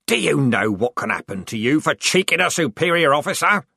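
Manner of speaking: loud, furious corporal; screaming. A narrator's reading. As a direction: scream at the private. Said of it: "screamed Strappy".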